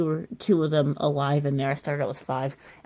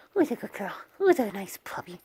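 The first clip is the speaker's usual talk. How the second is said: squeaky praising a dog; 5 semitones higher than usual. Real, not acted. Praising the licking puppy.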